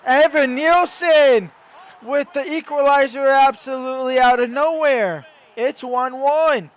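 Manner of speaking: excited goal call. Acted. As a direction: call the shock equaliser. Equalizer call.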